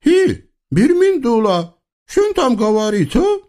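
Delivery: high, singsong eastern tyrant voice; comic sultan. Acted. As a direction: play a pompous, childish sultan. (высокий певучий голос капризного султана)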